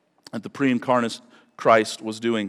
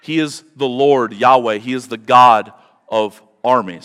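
proclaiming; 8 dB louder than usual. Real, not acted. Preacher proclaims God's title.

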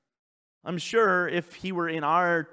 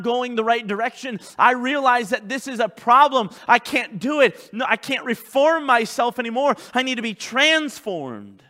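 louder, raised preaching voice; full-force preaching; 7 semitones higher, 7 dB louder than usual. Real, not acted. Pastor confessing the need for change, forceful preaching. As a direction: press each phrase home with force.

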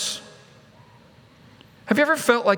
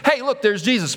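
higher-pitched exclamation to companions; mock excited sighting; 5 semitones higher than usual. Preacher voices onlookers spotting Jesus, mildly excited. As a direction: call out a quick sighting.

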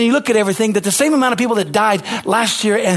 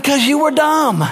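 scolding shout; 6 semitones higher, slower than usual. Acted. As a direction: drop the blunt verdict with a shout. Scolding the careless, preaching.

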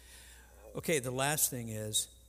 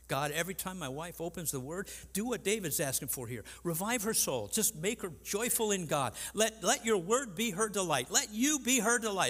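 fervent prayer; 6 semitones higher, 3 dB louder than usual. Retold or imitated. Praying aloud for his wife.

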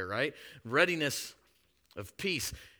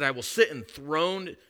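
grand boast; 5 semitones higher, 7 dB louder, slower than usual. Retold or imitated. Voicing Lucifer's boasts.

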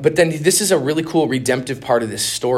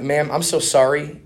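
choking up; 3 semitones lower than usual. Retold or imitated. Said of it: "I'm, like, choking up".

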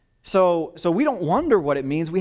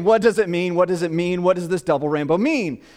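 louder, insistent awestruck questions; repeating in awe; 2 semitones higher, 4 dB louder than usual. Retold or imitated. Pastor imitating the rainbow man asking again and again, louder. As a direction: keep asking it overwhelmed. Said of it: "repeating over and over again".

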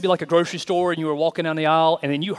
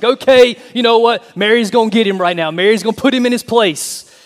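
gleeful anticipation; 5 semitones higher, 9 dB louder than usual. Retold or imitated. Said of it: "It's like".

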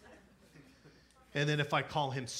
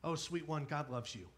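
pat them on the head with it; mock tender. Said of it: "we've heard for probably all of our lives".

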